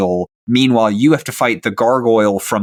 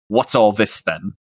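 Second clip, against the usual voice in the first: even, unvarying monotone. Acted. Warforged sheriff greeting arriving adventurers, monotone. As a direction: deliver it on one level note, understated. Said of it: "just in a monotone voice".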